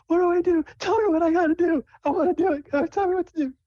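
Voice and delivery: very high, excited falsetto; bouncy, eager Sable. Acted. Sable begs to know the contest rules, bouncy and eager. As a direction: plead as if bouncing up and down. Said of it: "she's, like, bouncing up and down".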